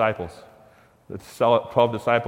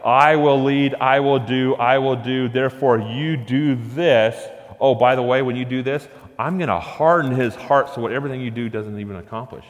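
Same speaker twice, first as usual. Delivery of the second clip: God's bold voice; 2 semitones higher than usual. Acted. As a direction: hammer each "I will" like a command. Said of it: "he's like".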